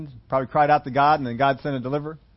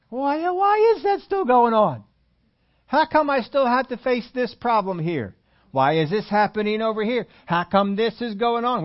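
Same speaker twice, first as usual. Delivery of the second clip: whiny complaining believer; 3 semitones higher than usual. Retold or imitated. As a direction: whinge it out, pitched up and dragging.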